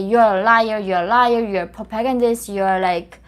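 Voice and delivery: loud, accusing voice of the critics; voicing the people who call him a liar, loud and accusing; mock accusing shout.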